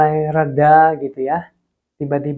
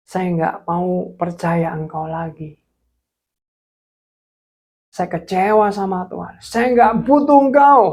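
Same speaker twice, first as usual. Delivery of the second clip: defiant rejection; 3 semitones higher than usual. Retold or imitated. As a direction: point at heaven and renounce. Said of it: "Saya sempat tuding ke langit". (penolakan marah kepada Tuhan)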